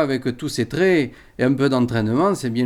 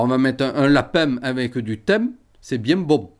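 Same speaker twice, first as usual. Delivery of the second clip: Limousin accent. Shown as a demonstration. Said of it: "en limousin, on ferme la bouche".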